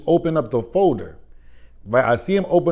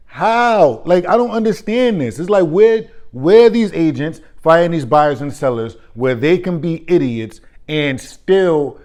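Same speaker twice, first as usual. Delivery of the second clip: exasperated rant; 3 semitones higher, 5 dB louder than usual. Real, not acted. Vlogger venting about clueless agents, loud and exasperated. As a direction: vent it, voice climbing. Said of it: "vents frustration on camera".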